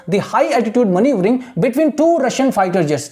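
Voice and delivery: very slow, careful reading aloud; teacher reading for imitation; slow model reading. Shown as a demonstration. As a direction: read slowly for students to copy. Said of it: "imitate करना है".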